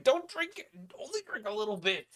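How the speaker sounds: high, loud panicked cry; shrill mock warning from the old man; alarmed shout. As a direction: yelp it out in alarm. Old man's warning retold.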